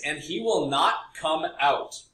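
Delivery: "will not come out" slow and deliberate; emphatic reading. Acted. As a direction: read "he will not come out" slowly, weighting each word. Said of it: "Exclamation point".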